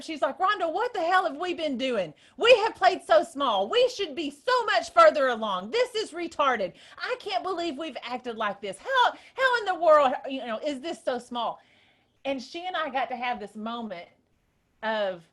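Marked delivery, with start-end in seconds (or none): 0.4-11.6 high and loud, fired up and insistent; imitating a friend laying down the law, thrilled; hyped-up friend. Friend telling Rhonda to stop playing small, loud and hyped. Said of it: "She was so excited and so hyped up".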